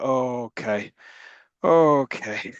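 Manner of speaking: mock casual shrug. Mocks Loveless's reaction.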